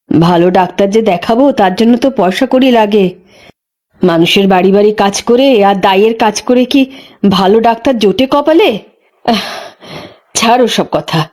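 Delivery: put-on a worn-out old woman sighing over her lot; old midwife. The old midwife tells Ganga about her bedridden husband, low and weary. Daima replies.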